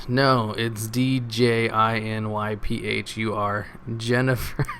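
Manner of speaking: slow, mildly indignant spelling-out; mock indignant. Parent correcting someone who can't spell it, mildly indignant. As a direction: correct them letter by letter, mildly affronted. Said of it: "they get the indignant when you can't spell".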